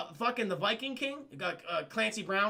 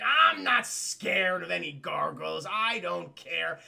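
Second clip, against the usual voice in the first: slow, drawn-out mock bravado; puffed-up refusal to be scared; defiant boast; 2 semitones lower, 4 dB louder, slower than usual. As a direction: act a swaggering king, dragging out the words. Acting a defiant Viking King.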